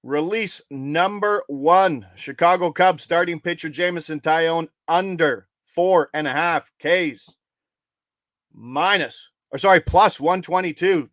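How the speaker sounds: measured announcer call, key words stretched; spaced-out, emphatic official call; bet announcement. Real, not acted. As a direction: announce it deliberately so followers catch it. Announces the bet slowly for followers.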